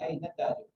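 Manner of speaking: अय्न ताजिर with the N carried into ताजिर; अय्न ताजिर, nun joined to the next word. Shown as a demonstration. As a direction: link अय्न ताजिर without a break. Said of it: "आप नून के साथ मिलाइएगा".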